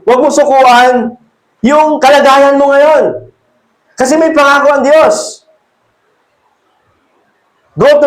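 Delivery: rally them not to give up; urgent exhortation. Acted. Preacher urging the congregation not to give up, fervent.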